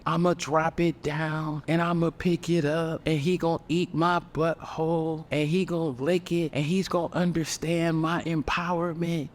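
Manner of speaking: mock slam poetry. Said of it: "poetry skit about basically a sexy red rap".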